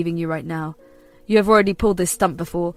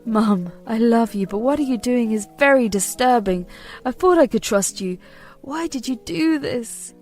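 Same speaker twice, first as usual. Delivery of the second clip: hurt son. Acted. Son heartbroken, head in hands.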